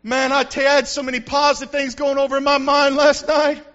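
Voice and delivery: a hammed-up joyful whoop after a sleepless night; mock cheerful worrier. Pastor mocking a worrier who claims joy, with a hammed-up whoop.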